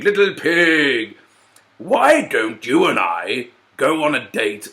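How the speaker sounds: slow, drawn-out sly wolf coaxing. Acted. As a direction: sweet-talk the pig, slowly.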